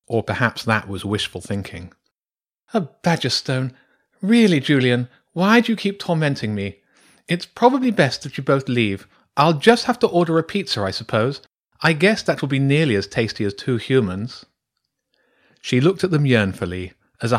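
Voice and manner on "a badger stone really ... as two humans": high-pitched, put-upon badger; exasperated badger priestess. Badger priestess giving up her human meal, exasperated. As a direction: grumble theatrically in a raised creature voice.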